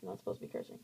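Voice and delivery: low, soft whispered aside. Real, not acted. Apologizing to viewers for cursing, a soft whisper. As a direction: whisper it sheepishly.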